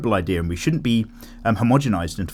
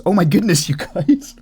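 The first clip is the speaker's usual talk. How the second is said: higher and louder, a mock gushing "Oh my goodness"; hammed-up gush; 7 semitones higher, 4 dB louder than usual. Mocking his own phrase to patrons with a higher, louder gush. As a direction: overplay the gushing on purpose. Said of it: "Did I say, "Oh my goodness"?".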